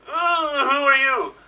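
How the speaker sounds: hammed-up first captain. Captain meeting a stranger in his Nexus, hammed-up surprise. Improviser switches between two captains.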